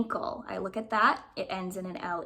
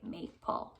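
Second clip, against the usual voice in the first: whispered check; 8 dB quieter than usual. Shown as a demonstration. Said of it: "that sounds about right".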